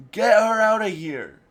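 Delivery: another imitation of the frightened, loud, high yell; retold panic, loud and high; second try at panicked yell. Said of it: "I can't do a good".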